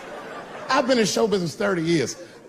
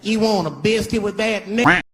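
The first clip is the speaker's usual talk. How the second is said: snippy; 4 semitones higher than usual. Retold or imitated. Cashier voiced in story.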